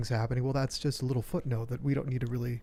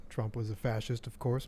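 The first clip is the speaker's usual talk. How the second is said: sarcastic; 5 dB quieter than usual. Acted. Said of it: "I'm just being sarcastic".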